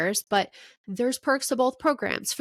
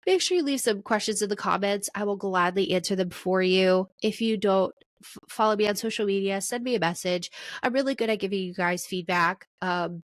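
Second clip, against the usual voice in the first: stuffy nose. Real, not acted. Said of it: "sorry for my stuffy nose in this episode".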